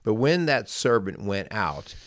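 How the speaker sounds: measured, careful Bible reading aloud; scripture reading. Acted. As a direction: read the parable to listeners at an even pace. Reads Bible parable aloud.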